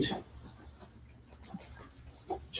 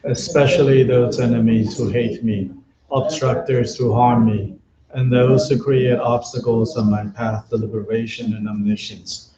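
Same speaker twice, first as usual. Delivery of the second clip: even, measured chant-like prayer reading; prayer recitation. Real, not acted. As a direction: recite the prayer steadily, line by line, on a level tone. Recites Buddhist prayers aloud.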